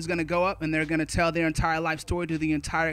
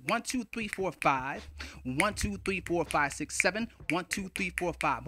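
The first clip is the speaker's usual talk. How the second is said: softer, singsong count with each group falling at its end; rhythmic counting; 5 dB quieter than usual. Shown as a demonstration. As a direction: count in haiku rhythm, five-seven-five. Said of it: "rhythmically it goes a little something like this".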